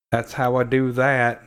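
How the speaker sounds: slow drawn-out movie-character imitation; Forrest Gump. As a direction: draw the words out like a hint of the character. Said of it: "Forrest Gump".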